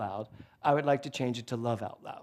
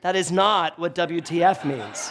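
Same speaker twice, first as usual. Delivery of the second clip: laughing correction; 2 semitones higher, 4 dB louder than usual. Retold or imitated. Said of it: "she was like".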